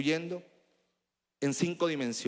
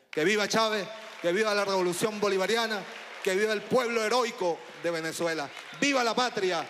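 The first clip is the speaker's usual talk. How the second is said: ranting dictator speech; 6 semitones higher than usual. Real, not acted. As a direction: shout the vivas to the crowd. Rally chants closing political speech. (arenga gritada a la multitud)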